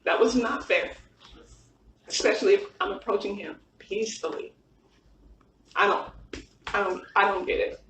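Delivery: hurt and struggling to get it out; getting emotional. Real, not acted. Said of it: "I'm sorry, I'm getting emotional".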